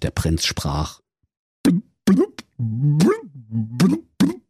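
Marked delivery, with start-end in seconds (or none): 1.6-4.4 wailing, crying blubbing; dismayed blub. Acted. Prince to himself underwater, crying blubbing in dismay. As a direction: burble in crestfallen dismay. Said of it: "Da hätt ich aber auch selber drauf kommen können".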